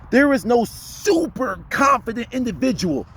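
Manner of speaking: a hint of a meek speaker; timid voice. Shown as a demonstration. Coach mocking a timid speaker. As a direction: sound small and unsure. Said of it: "that speaks like this".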